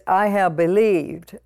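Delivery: slow, leaning on "I have believed"; emphasized. Shown as a demonstration. Pastor stressing the verse to the congregation, slow and deliberate. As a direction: draw out "I have believed" to drive it home. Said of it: "it's very important that I emphasize this".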